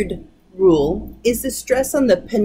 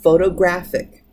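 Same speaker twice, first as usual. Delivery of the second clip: photographic, stressed on GRA, the second-to-last syllable; stress on the penultimate. Shown as a demonstration. Teacher showing the class photographic stressed on GRA. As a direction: say photographic with the beat landing on GRA. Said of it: "on the penultimate".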